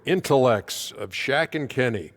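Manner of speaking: mock-grand praise with punched words; sarcastic. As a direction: lay on the compliment with dry sarcasm. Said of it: "Was that sarcasm".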